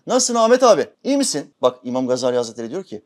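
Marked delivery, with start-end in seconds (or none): 0.1-1.5 high, loud, sugary greeting; hammed-up hypocritical friendliness; fake cheerful greeting. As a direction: put on an overly sweet hello. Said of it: "şöyle diyor".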